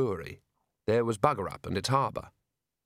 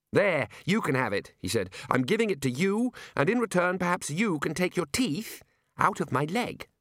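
higher, coaxing and pained; coaxing character voice; 7 semitones higher than usual. Acted. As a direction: bargain gently with the ape. Ponder coaxing librarian.

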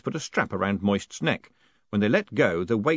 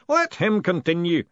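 raised ceremonial command; solemn ritual voice; booming, intoned; 8 semitones higher, 5 dB louder than usual. A narrator's reading. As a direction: intone the order grandly. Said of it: "the booming voice intoned".

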